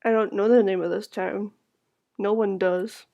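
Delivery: soft, lifeless answer; flat eerie voice. Acted. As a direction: say it softly, empty.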